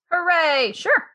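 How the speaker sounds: high-pitched happy acceptance; delighted cheer. Real, not acted. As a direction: cheer the invitation, pitched right up. Delighted to be asked to moderate.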